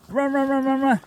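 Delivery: high, loud chant of run; excited cheering. Real, not acted. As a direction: urge him on, cheering. Cheering Doug across water.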